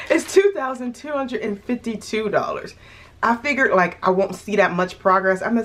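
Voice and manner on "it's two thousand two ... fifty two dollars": talking through the hiccups. Real, not acted. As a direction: still hiccuping. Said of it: "I have the hiccups".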